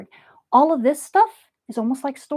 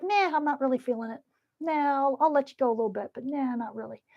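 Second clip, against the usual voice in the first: reluctant; 2 semitones higher, 6 dB quieter than usual. Acted. Current personified as reluctant.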